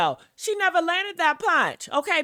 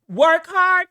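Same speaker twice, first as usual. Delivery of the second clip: mock repeat; 4 semitones higher, 5 dB louder than usual. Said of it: "That's what she just said".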